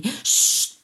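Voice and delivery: a sharp hushed shh; whispered shush. A narrator's reading. Mother hushing her son in the tree, whispered. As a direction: hush him without a voice. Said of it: "ripeté sottovoce la mamma".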